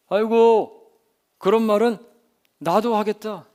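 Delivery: openly mocking complaint; skeptical scoff. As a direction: scoff it out loud, unimpressed. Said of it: "이렇게 생각했을지도 몰라요".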